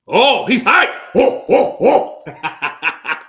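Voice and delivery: high, loud excited yelling; hyped shout. Real, not acted. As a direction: get pumped with him. Hyped watching the ring walk.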